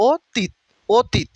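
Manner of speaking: অতীত drawn out very slowly, high and rising; slow model word. Shown as a demonstration. Teacher models অতীত for exam students, slow and rising. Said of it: "এটা মুখস্থ হয়ে যায়".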